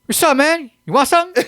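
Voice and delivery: put-on loud, high-pitched baby hustler voice; high mock baby voice; comic talking baby. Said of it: "and the baby's like".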